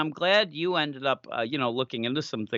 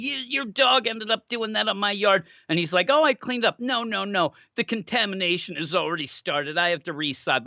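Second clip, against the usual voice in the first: higher, fussy, outraged neighbor; crazy neighbor; 5 semitones higher than usual. Retold or imitated. Neighbor scolding Henry over his dog, higher and indignant. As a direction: act like the lawn is a crime scene. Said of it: "she's so crazy".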